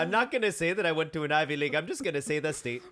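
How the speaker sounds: teasing put-on voice, lilting toward the end; mocking impression of podcast guest. Host teasing guest over her Ivy League modesty, mocking impression. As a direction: lightly mimic a friend's humble-bragging with a silly lilt. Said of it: "it sounded a little racist at the end".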